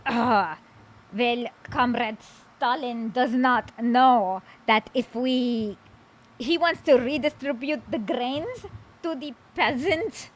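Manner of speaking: lightly voiced kulak, slow and halting; a hint of a put-on kulak, drawn out. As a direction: play a kulak mildly, slowly. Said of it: "this is what the kulak would be like".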